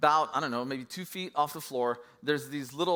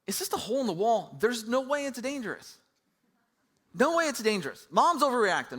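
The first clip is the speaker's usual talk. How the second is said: put-on cocky kid thinking; 4 semitones higher, 3 dB louder than usual. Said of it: "I'm thinking to myself".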